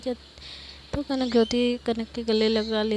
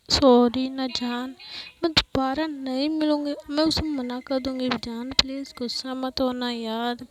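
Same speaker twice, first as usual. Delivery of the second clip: pleading apology; 6 dB louder than usual. Acted. Roshni begging her angry partner not to be upset, pleading. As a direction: plead with an upset lover, stretching the key words.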